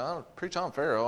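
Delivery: soft, mildly baffled echo; puzzled repeat. Retold or imitated. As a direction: repeat it to yourself, not getting it. Preacher puzzles over the call.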